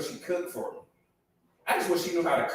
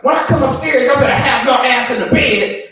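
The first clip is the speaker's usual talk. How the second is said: loud, high barked order; hammed-up scolding shout; bossy wife yelling; 8 semitones higher, 11 dB louder than usual. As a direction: imitate a wife laying down the law. Imitating bossy wife giving orders.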